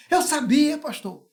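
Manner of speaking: triumphant wife. Retold or imitated. Wife agrees on phone.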